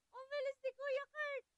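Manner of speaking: laughing tease. Real, not acted. Teasing repeat while laughing.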